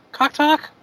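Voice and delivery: slow robotic voice; drawn-out robot impression. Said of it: "Do I sound like".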